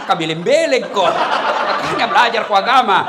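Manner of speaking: mock retort. Mocking retort in regional voice.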